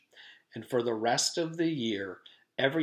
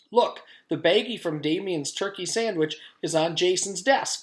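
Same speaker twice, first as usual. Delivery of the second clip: high, loud eager call; 7 semitones higher, 4 dB louder than usual. Acted. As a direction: call it out to the teacher. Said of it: "called Joy".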